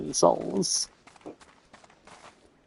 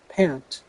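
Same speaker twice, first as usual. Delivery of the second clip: mock panting; 3 dB quieter than usual. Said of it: "reading NPC line aloud".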